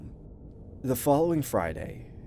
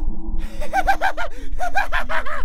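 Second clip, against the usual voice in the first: long, very high, loud cackle; shrieking evil clown laugh; maniacal clown laughter; 10 dB louder than usual. Acted. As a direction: cackle wildly like a killer clown. Clown laughs after threatening Trevor.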